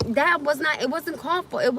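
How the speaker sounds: insisting she is the one at the park; heated. Real, not acted. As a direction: hit back at the remark. Heated defense.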